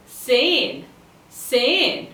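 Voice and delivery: zehn with a long, drawn-out vowel; stretched out. Shown as a demonstration. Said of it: "and stretched out".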